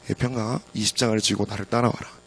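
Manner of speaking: quietly invite, as the Lord asking; gentle request. Retold or imitated. The Lord asks preacher to follow, gentle request. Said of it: "라고 부탁하셨습니다".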